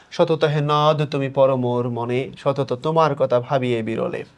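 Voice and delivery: poem recitation. Shown as a demonstration. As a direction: recite the lines of verse, unhurried. কবিতার line আবৃত্তি. (কবিতা আবৃত্তি)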